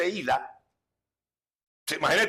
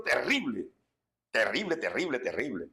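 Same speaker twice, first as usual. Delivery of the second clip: fading dramatic repetition; 8 semitones lower, 6 dB quieter than usual. Retold or imitated. Recalling a terrible demon.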